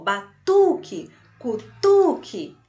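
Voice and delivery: slow, loud "Batuque, cutuque" with TU stretched; stress on TU. Shown as a demonstration. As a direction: punch the TU in batuque and cutuque to show the rhyme. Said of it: "Olha como combinou". (TU forte e alongado em "Batuque, cutuque")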